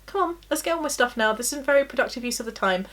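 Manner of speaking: brisk, chivvying self-talk; nagging inner voice. Retold or imitated. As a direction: hurry yourself along like an inner nag. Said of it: "one voice will be saying".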